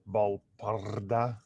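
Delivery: slow, careful Argentinian accent on Balparda. Shown as a demonstration. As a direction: roll out Balparda slowly, Argentinian style. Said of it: "I'm trying to say it in a, in a Argentinian accent".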